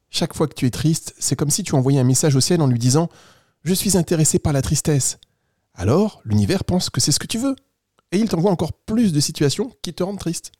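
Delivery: lightly voiced kindly storybook squirrel; friendly squirrel. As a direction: play a helpful little animal reassuring a child. Plays Noisette the squirrel. (écureuil bienveillant, à peine joué)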